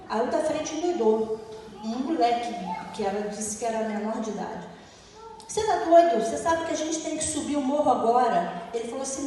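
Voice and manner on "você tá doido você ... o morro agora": put-on young robber snapping loud at his partner; angry yell. Young robber yells at the older one, furious.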